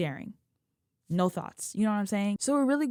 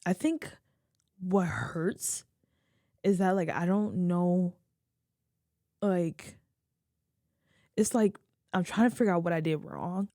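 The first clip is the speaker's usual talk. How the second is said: tearful. Real, not acted. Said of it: "I'm such an ugly crier".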